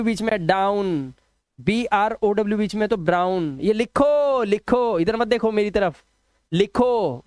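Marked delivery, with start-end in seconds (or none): 3.6-7.2 insistent command. Real, not acted. Teacher orders students to write.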